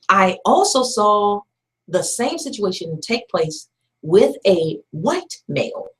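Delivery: each word laid down slowly; slow it right down so they listen; slow and deliberate. Shown as a demonstration. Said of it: "listen to me closely".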